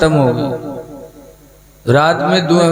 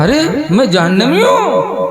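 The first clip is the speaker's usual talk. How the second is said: higher, indignant outburst; angry husband; 5 semitones higher than usual. Acted. Haroon furious at Zubaida, declaring divorce. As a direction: throw the divorce words in rage. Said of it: "तो हारून को गुस्सा आया".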